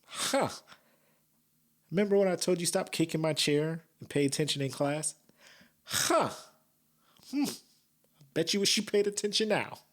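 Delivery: high, taunting imitation of the judge; mock judge. Judge teasing a former classmate in the dock, mock taunting. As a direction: needle an old classmate with high, gloating huhs. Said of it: "she's just like".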